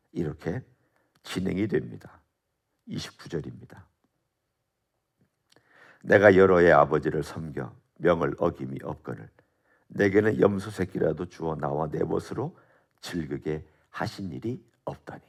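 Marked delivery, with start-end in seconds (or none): 6.0-15.2 resentful complaint. Acted. Elder son's resentful complaint quoted.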